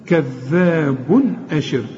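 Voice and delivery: slow كذاب أشر, clear n before the hamza; no ghunna. Shown as a demonstration. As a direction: end كذاب in a crisp "bun", then a clean break into أشر. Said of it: "ما تغنش هنا".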